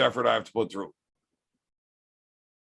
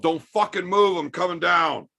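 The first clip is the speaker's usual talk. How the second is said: mock yell, raised pitch; retold yell; 4 semitones higher than usual. Angry man upstairs to the buddy, retold yell. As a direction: call it out like a half-yelled warning. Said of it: "and yelled".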